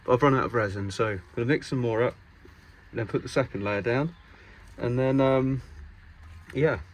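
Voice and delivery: muffled behind a mask; through a face mask. Real, not acted. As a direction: speak through a dust mask. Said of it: "sorry, I have my mask on".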